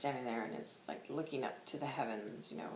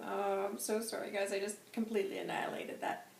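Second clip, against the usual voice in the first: ordinary delivery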